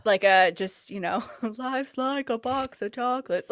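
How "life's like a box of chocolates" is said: Forrest Gump. Pretend. Owner voicing her dog, awkward Forrest Gump impression. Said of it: "like, a Forrest Gump".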